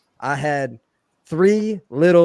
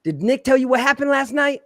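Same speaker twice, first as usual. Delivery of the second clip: lightly voiced workers; 9 semitones higher than usual. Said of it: "they're like".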